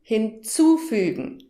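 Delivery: Hinzufügen with the zu syllable stressed; stress shown on zu. Shown as a demonstration. Teacher asking if the learner hears the stress, zu stressed. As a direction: lean on the zu in Hinzufügen. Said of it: "Hörst du die Betonung?".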